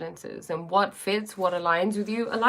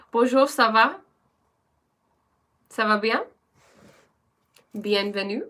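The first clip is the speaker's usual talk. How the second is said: French accent; 3 semitones higher, 5 dB louder than usual. Shown as a demonstration. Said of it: "Here comes my French accent".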